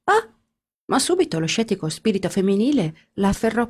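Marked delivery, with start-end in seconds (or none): 0.1-0.3 brief high-pitched "ah"; a quick exclaimed cry; short cry. A narrator's reading. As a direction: let out a small, high cry. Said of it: "Ginevra gridò".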